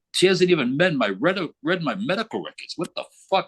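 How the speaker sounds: high-pitched exasperated rant; worked up and incredulous; agitated. Retold or imitated. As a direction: retell an indignant walk-out. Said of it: "a little bit agitated".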